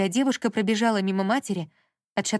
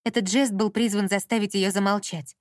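ordinary delivery, nothing marked

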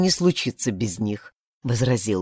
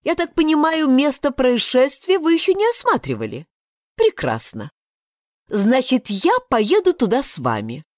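put-on higher, insistent young woman; heroine's higher voice; 6 semitones higher than usual. Heroine insisting to the deputy, higher and firm. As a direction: press your right politely but firmly.

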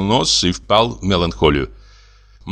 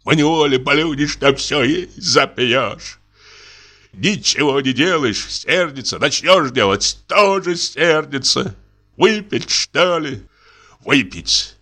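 weary complaint; 5 semitones higher than usual. Acted. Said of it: "жалуется".

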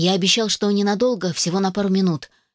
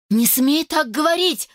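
horrified cry; 9 semitones higher than usual. A narrator's reading. Carrie cries out at Stan calling himself a corpse, horrified. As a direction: cry it out in terror. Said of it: "выкрикнула я с ужасом".

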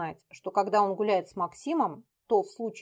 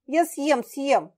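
terrified; 6 semitones higher, 5 dB louder, much slower than usual. Acted. Terrified boy gives in.

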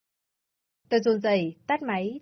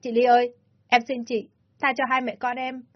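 raised, begging voice, slowing at the end; tearful pleading; 3 semitones higher than usual. Acted. Mother begging Ly to spare her little son, tearful. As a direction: plead through held-back tears. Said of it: "bắt đầu khóc".

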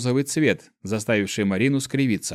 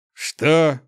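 higher, loud, slow sputtered denial; choking surprise; 4 semitones higher, 4 dB louder, much slower than usual. Acted. Guardian chokes at the boy's guess, sputtering surprise. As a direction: nearly choke on the words. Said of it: "поперхнулся он".

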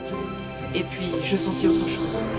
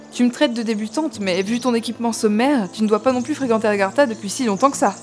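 louder, pointed questioning; challenging; 2 semitones higher, 4 dB louder than usual. Acted. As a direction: push back, then grope upward for the unfamiliar word. Challenges him, then gropes for the word.

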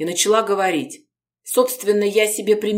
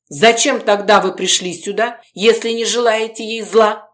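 louder, hostile demand; with hatred; 4 semitones higher, 5 dB louder than usual. Acted. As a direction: spit the question at her. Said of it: "с ненавистью спросил".

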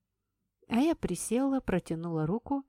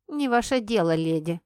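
put-on curt boy; 5 dB louder than usual. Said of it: "оборвал меня ребёнок".

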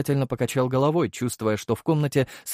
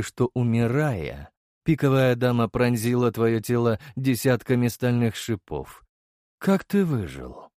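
probing emperor. Acted. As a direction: press for the truth calmly. Emperor interrogates the hero.

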